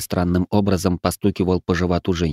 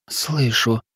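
moan; 3 semitones higher than usual. Acted. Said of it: "простонала она".

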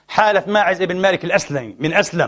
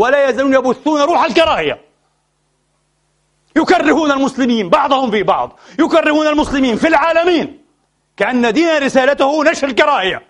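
raised, impassioned preaching voice; fervent preaching; 4 semitones higher than usual. Real, not acted. Preacher denouncing hateful clerics to his listeners, raised impassioned voice. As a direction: pour out the outrage from the pulpit.

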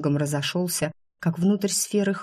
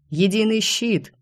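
крик; 4 semitones higher than usual. Acted. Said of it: "заорал Гард".

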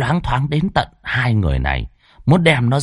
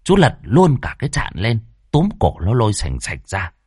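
ordinary delivery, nothing marked

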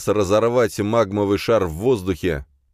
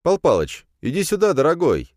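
calling out; 11 semitones higher, 4 dB louder than usual. A narrator's reading. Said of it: "позвал я питомца".

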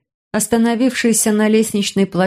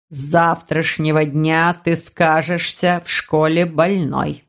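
low, slow man's voice, laying down orders; a stern older man giving orders; commanding uncle; demanding man; 3 semitones lower, slower than usual. Acted. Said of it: "потребовал незнакомец".

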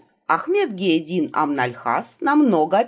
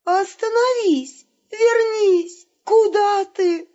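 high, slow, hammed-up panicked call; frightened cry; 13 semitones higher, much slower than usual. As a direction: wail after a fleeing companion. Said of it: "испуганно закричала".

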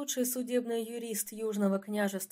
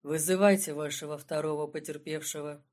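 dry; 5 semitones lower than usual. Acted. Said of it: "сухо обронил Разумовский".

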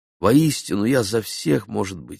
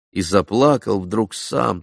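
ordinary delivery

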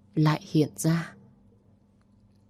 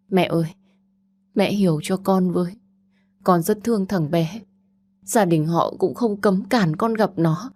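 a mild hint of a choked, pleading daughter; 3 semitones higher than usual. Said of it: "giọng nói nghẹn ngào". (con gái nghẹn ngào van xin mẹ, nhẹ nhàng)

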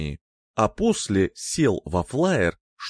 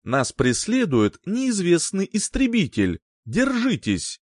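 urgent pilot over the intercom; a hint of radio-voiced alarm; over a pilot headset; 5 semitones higher than usual. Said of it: "голос пилота по внутренней связи".

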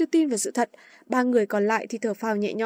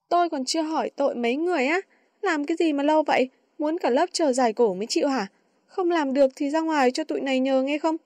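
scolding; 3 semitones higher than usual. Acted. Girl scolding the two.

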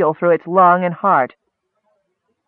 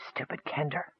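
very soft, barely there; a tender dying murmur; fond last thought; 17 dB quieter than usual. A narrator's reading. Dying goblin's last thought about his friend, faint murmur. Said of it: "he thought".

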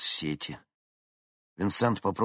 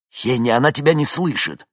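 loud, higher urgent call; shouting; 7 semitones higher, 9 dB louder than usual. A narrator's reading. Vincent tells Henni the woman can't hear, shouting. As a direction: make her hear over the engine.

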